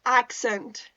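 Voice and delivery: careful, deliberate "accent"; careful pronunciation. Shown as a demonstration. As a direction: say "accent" with care to get the vowel right. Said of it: "that's how you do it".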